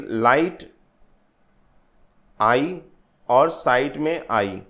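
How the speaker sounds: LIGHT and SIGHT with the 'आई' vowel picked out on its own; vowel sound demo. Shown as a demonstration. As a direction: isolate 'आई' after 'लाइट' and 'साइट'. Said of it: "ये जो sound है, vowel sound". ('लाइट' और 'साइट' की 'आई' ध्वनि अलग करके बोलते हुए)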